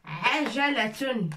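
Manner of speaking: ajalatun said clearly as a teacher, with the ain at the start; Arabic model word. Shown as a demonstration. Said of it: "Qu'est-ce que ça veut dire ajala".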